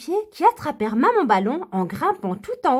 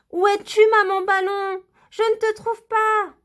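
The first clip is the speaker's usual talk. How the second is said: inquiète en larmes; 8 semitones higher than usual. Acted. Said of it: "Lily se mit à pleurer".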